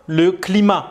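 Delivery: "climat" said klima, final T silent. Shown as a demonstration. Teacher models "climat" to an Arabic speaker, final T silent. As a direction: say "climat" ending on a, no T sound. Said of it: "Avec un T à la fin".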